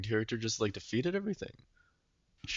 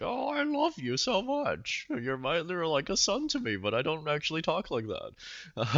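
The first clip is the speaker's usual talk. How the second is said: professor role; 6 semitones higher than usual. Retold or imitated. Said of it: "the professor's like".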